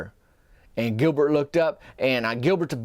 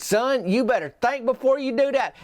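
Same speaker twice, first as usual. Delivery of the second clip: raised, stern threat; a retold threat to the pickle thrower; mock stern warning; 9 semitones higher than usual. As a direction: warn him off, mock serious. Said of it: "He said".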